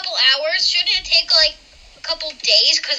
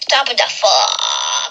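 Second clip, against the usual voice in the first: put-on baby dragon voice; 5 semitones lower, slower than usual. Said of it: "what if your baby dragon just went".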